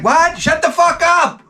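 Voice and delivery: high, incredulous shriek; can't believe it, shriek it; stunned disbelief. Retold or imitated. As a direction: neighbors in shock at the news. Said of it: "They're like".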